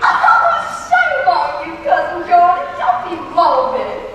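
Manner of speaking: loud, hammed-up Southern scold; mock scolding. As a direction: chide him loudly, half playful. Scolds cousin for a morbid joke.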